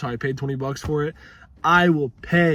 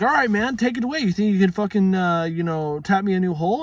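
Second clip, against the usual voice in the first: raised, exaggerated retold voice; lightly mocking higher voice; mocking own voice; 5 semitones higher, 3 dB louder than usual. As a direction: ham up your own question a lot higher. Retold exchange with mechanic.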